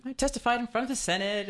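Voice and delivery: a laughing, lightly mocking brag; mock boast with a laugh. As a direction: tease the line while laughing. Host mocking a boastful claim.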